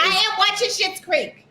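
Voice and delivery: loud, drawn-out announcement; loud sharp voice. Real, not acted. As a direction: declare it loudly and slowly. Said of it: "Why are you yelling?".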